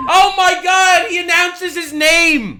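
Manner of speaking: loud, high, drawn-out mock awe; mock amazement. Commentator jeering at a politician announcing himself, mock amazement. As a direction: feign being thrilled, stretching it out loudly.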